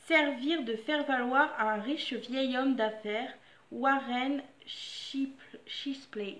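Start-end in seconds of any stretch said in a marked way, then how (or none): 3.7-6.4 name said with a clumsy English accent, trailing to a whisper. Shown as a demonstration. Reading a name, a lame English accent. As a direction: try an English accent on Warren Shipley. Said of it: "Désolée pour mon accent anglais".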